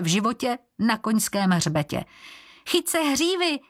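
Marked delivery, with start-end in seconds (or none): 2.7-3.6 high, urgent cry; a girl shouts to the boy on the horse, urgent. A narrator's reading. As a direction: call it out sharply so he grabs on. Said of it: "vykřikla Libuše".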